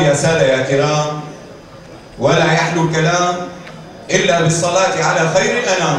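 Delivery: traditional hakawati opening; lightly voiced storyteller's formula; arabic cafe storyteller. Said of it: "قال الراوي".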